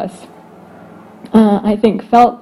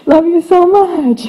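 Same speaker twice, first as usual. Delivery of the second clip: weary parent; 6 semitones higher, 4 dB louder than usual. Retold or imitated. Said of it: "waking me up in the middle of the night".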